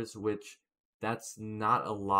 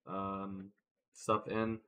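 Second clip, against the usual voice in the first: mouth full. Real, not acted. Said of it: "Sorry if I sound a little bit distorted. I have my whitening".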